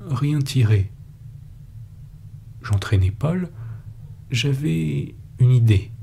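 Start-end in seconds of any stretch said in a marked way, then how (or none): none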